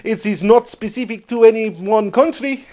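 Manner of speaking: put-on generic Mediterranean accent. Co-host judging the impression, still in Mediterranean accent. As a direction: keep up a vague Mediterranean accent. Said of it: "maybe Mediterranean accent".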